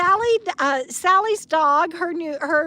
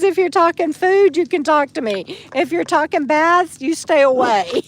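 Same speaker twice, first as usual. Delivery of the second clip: voicing the dog; 3 semitones higher, 4 dB louder than usual. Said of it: "She, she says".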